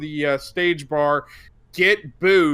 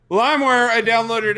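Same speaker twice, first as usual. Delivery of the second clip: laughing; 4 semitones higher, 5 dB louder than usual. Real, not acted. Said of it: "anybody remember LimeWire".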